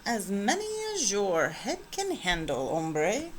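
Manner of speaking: a soft, lightly put-on Spanish accent. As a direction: lean into a playful Spanish accent, quietly. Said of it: "using his very best Spanish accent".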